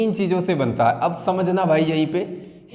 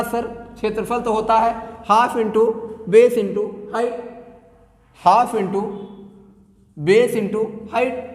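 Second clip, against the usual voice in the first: slow, drawn-out rote recitation of a pupil; student reciting formula; 3 semitones higher, slower than usual. Retold or imitated. Teacher mimics a student answering him in a slow rote recitation. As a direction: drag each word out like a student reciting by heart. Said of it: "तुमने कहा".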